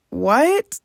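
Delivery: high, loud rising what; disbelieving what; stunned what. Retold or imitated. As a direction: thrown by the news. Stunned by test result.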